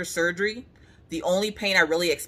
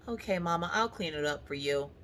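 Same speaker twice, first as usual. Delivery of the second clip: put-on sweet child reply; 9 dB quieter than usual.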